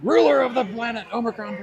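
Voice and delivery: grand villain proclaiming himself ruler; booming demon lord. Pretend. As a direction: announce yourself as a tyrant overlord. Joking he's a galactic overlord.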